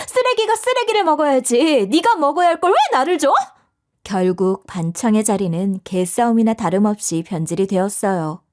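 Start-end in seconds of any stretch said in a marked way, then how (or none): 0.1-3.3 angry retort. Acted. Heated quarrel.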